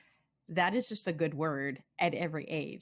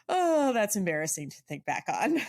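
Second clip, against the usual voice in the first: louder mock-embarrassed "oh"; embarrassed groan; 3 semitones higher, 4 dB louder than usual. Host imagines guest recalling a cultural whoops, embarrassed. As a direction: cringe playfully at a remembered blunder. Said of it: "That is that one that you're like".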